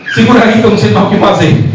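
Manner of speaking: mock plea of a dad out of his depth; flustered father. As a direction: hand the child over, mildly panicked. Acts helpless father with crying child.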